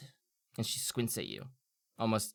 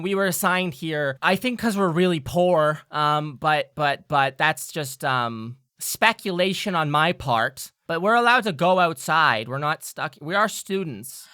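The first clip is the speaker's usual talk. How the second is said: much higher, louder fairy; excited fairy; 4 semitones higher, 7 dB louder than usual. Acted. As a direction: chatter high and eager as a fairy. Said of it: "looks around and says".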